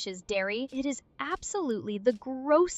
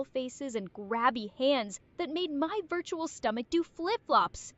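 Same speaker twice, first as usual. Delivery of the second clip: put-on country bumpkin accent. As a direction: lay on the country twang. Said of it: "Country Bumpkin Arya come back".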